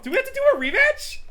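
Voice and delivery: high, loud shout; loud, rising, fired-up demand; acted angry challenge. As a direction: yell it as a heated challenge. Game character challenges opponent.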